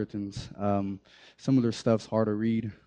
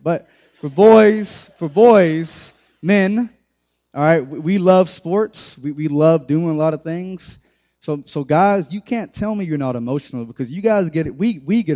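louder, higher, punchy sermon push; rally the guys with a raised voice; hyped-up preaching; 5 semitones higher, 7 dB louder than usual. Acted. Preacher rallying the young men, loud and higher.

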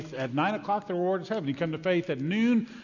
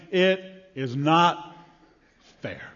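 grumbling workers' complaint; 4 dB louder, much slower than usual. Acted. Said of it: "they were saying".

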